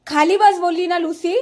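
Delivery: stern command. Real, not acted. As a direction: order a disobedient pet to sit. Scolding the dog to sit. (कडक आवाजात दटावत)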